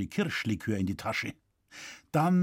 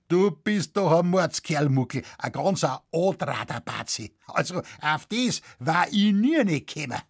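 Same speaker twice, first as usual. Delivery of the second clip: shouted; 3 semitones higher, 3 dB louder than usual. A narrator's reading. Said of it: "und schrie".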